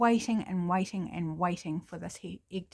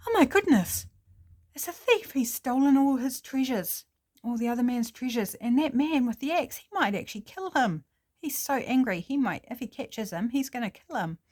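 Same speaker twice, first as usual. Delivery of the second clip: much higher and louder, worked-up alarm; alarmed excitement; 5 semitones higher, 4 dB louder than usual. Acted. Birdwatcher seeing the axe man chase the thief, high alarmed. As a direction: gasp it out, fearing for the thief's life.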